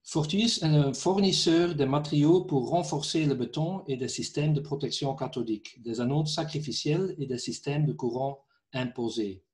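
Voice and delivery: non-native French speaker with a foreign accent; French spoken with a foreign accent. Real, not acted. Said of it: "mon français n'est pas très bien".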